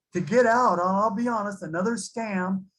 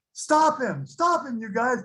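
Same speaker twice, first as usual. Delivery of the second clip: retold yell; 5 semitones higher than usual. Captain yells to office workers.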